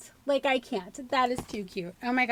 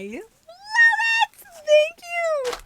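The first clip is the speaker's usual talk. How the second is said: teary thanks; 3 dB louder, much slower than usual. Real, not acted. Overwhelmed by the gift.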